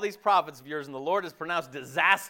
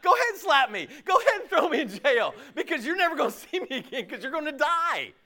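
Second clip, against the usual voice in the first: defiant prophet; 10 semitones higher than usual. Retold or imitated. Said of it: "He's like".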